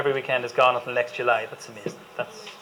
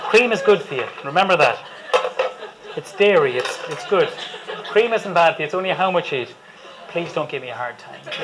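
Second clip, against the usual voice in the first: laughing; 2 semitones higher than usual. Real, not acted. Chef jokingly defends cream, laughing.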